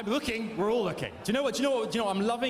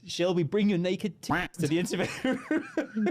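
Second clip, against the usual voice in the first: lightly put-on slow announcer voice with laughter; mock Big Brother announcer. Host copies guest's Big Brother joke, a hint of mock announcer. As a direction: echo the reality-show summons, cracking up.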